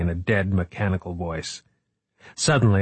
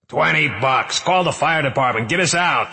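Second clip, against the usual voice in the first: shouting; 5 semitones higher than usual. Acted. Shouting up, bargaining.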